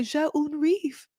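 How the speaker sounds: high, slow French line; mimicked husband. Husband offering his French excuse, mimicked and drawn out. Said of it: "He's just like".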